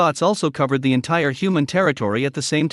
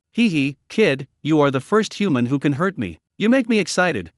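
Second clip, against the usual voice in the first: weird laughing vampire. Acted. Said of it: "laughed weirdly".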